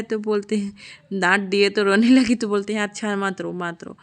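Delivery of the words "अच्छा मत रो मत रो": soothing. Retold or imitated. Papa soothes crying child.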